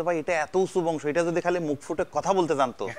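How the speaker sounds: retelling the seller's boast while laughing; a lightly voiced cow seller, breaking into laughter; laughing through the quote. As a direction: giggle through the punchline. Retold cattle seller's boast.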